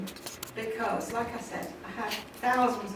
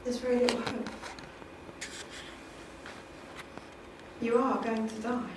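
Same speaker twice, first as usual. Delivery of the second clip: quiet doctor; 10 dB quieter than usual. Retold or imitated. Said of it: "somebody might hold your hand and say".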